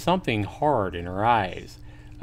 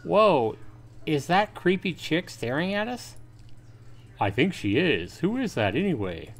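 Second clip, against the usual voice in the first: put-on higher, chattering teen boy gossiping; teasing school buddy; 6 semitones higher than usual. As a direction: nudge your pal and gossip about the girl. Friend voices classmates teasing John.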